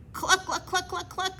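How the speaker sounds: excited mock hen clucking. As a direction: cluck up high as you chase. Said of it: "hacían las gallinas".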